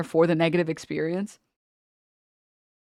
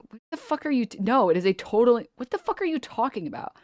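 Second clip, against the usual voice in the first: incredulous friend; 5 semitones higher than usual. Retold or imitated. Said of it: "they're like".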